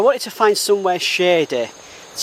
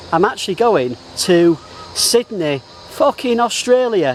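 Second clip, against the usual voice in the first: bursting out "fucking Australia" much higher, real thrill; excited; 4 semitones higher than usual. Real, not acted. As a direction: blurt "fucking Australia" with the pitch leaping up. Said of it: "I'm so excited".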